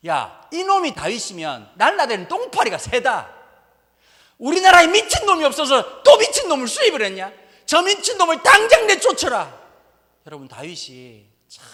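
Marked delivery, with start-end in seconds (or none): 0.1-9.6 much louder, higher furious royal shout; angry king. Acted. Philistine king yelling at servants, much louder and higher. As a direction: bellow the order to throw him out. King throws out mad David.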